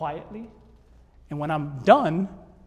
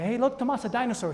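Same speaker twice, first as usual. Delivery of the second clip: higher-pitched fake excitement; mock excited distraction; 6 semitones higher than usual. Dad distracting his son to give medicine, mock excited. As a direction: pretend to spot something to distract a child. Dad fakes a dinosaur sighting.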